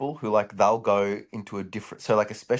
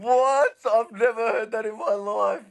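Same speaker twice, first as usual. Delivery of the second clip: real astonishment; 12 semitones higher, slower than usual. Real, not acted. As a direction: react in total disbelief. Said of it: "shocked reaction".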